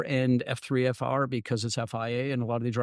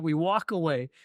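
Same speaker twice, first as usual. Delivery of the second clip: ordinary talk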